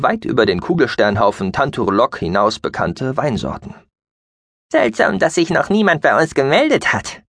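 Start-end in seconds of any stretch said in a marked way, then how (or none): 4.7-7.2 squeaky mouse-beaver voice. Acted. Gucky speaks, tense.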